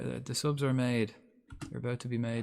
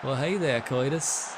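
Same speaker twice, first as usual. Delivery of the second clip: lightly voiced cartoon American greeting; a hint of a daft Disney character; mild mock Yankee hello; Goofy. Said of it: "like, Goofy".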